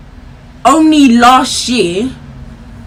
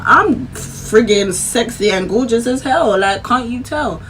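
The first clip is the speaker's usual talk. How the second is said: mock boastful; slower than usual. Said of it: "No, I'm joking".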